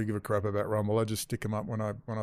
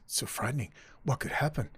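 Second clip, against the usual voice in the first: mock fear; 6 dB quieter than usual. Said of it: "the theme is".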